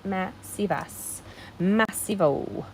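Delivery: slow silly massivas and massivo; playful fake forms of massive; mock made-up words. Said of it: "other ones are not words".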